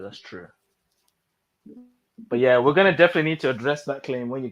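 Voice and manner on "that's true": barely audible; fading to near silence. Real, not acted. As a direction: let it die away. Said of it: "repeated fading".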